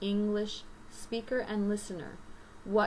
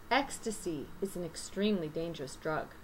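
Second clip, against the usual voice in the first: natural read-aloud with sentence stress; native reading demo; 3 semitones lower than usual. Shown as a demonstration. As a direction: stress the content words in an example sentence. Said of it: "how a native person sounds when they're reading".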